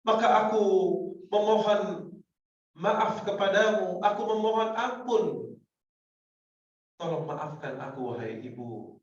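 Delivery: high, pleading cry that sinks to a hush; tearful pleading. Acted. Son begging his mother at her door, tearful pleading. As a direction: beg forgiveness through tears, fading out. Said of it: "Sambil anak itu menangis sejadi-jadinya".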